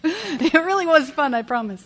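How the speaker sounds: laughing. Real, not acted. Laughing as she tells the room it really was fun. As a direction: laugh the words out.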